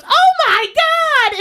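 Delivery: high, slow, loud shocked cry; shocked exclamation. Retold or imitated. Barn owner horrified at what pops out, high shocked cry. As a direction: gasp it out in horror. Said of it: "and she goes".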